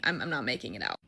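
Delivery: low, unvoiced dread; a whispered, mock-doomed thought; scared whisper. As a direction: whisper it like it's your last night. Retold fear, whispered.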